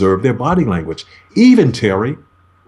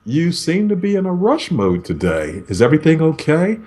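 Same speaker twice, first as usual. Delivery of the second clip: higher, gentle and concerned; calming tone; 4 semitones higher than usual. Shown as a demonstration. Negotiator calms down a stressed caller, gently higher. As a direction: soothe a rushed caller. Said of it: "I used my tone to calm you down".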